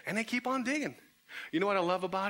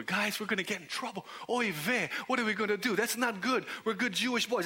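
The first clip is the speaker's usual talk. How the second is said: mock-worried, lilting complaint; fretting Matthew; 3 semitones higher than usual. Man on the mat frets to his digging friends, mock-worried. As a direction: fret comically at your reckless friends. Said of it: "You can see Matthew looking over".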